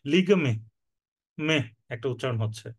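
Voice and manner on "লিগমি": লিগমি with the weight on lig and a light, unstressed mi; no stress on mi. Shown as a demonstration. Teacher showing students where লিগমি is stressed, light final mi. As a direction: lean on lig in লিগমি and let mi fall away. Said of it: "মিটার উপরে বেশি জোর দেওয়া হচ্ছে না".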